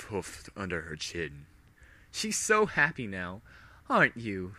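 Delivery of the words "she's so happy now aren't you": high, mock-sweet coo. Villain to brainwashed minion, cooing. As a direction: coo like petting a pet. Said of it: "she cooed".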